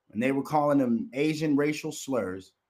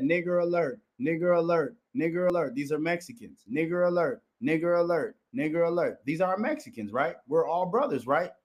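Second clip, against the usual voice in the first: higher mocking imitation of a repeated call; mock callout, pitched up; 5 semitones higher than usual. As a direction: parrot the quote in a raised, mocking voice. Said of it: "He said".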